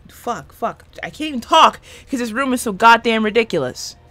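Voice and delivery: exasperated outburst. Real, not acted. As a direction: vent at the ridiculous room, not truly mad. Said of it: "I sounded really angry there".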